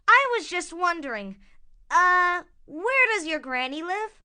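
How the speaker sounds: lightly voiced storybook wolf; a hint of a cartoon villain; sly big bad wolf. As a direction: play a wolf fishing for information. Wolf questions Red Riding Hood.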